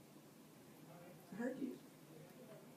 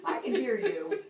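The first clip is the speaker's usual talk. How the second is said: louder, bursting into a laugh; laughing with joy; 5 semitones higher, 10 dB louder than usual. Real, not acted. To the patient who just heard her, laughing with joy. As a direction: laugh out the words in relief. Laughs, delighted she hears.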